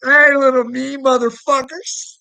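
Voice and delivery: high, loud, sneering mock hello; mock greeting shout. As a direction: yell it up high like a gloating taunt. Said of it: "I'll be like".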